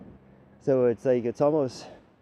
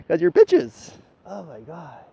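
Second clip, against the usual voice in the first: shouted through laughter, higher and louder; laughing; 8 semitones higher, 13 dB louder, slower than usual. Real, not acted. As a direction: yell it while still cracking up. Laughing insult mid-laugh.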